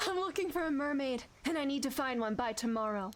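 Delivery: put-on a Dick Van Dyke style botched Scottish accent; weak attempt at a Scottish accent; bad Scottish accent. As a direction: fumble a Scottish accent, half Cockney. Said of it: "I sound like Dick Van Dyke".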